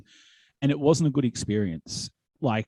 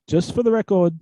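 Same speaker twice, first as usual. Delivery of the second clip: louder, slow drawn-out announcement; mock public disclaimer; 4 semitones higher, 4 dB louder, slower than usual. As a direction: announce it to the room, half laughing. Mock disclaimer to crowd on mic.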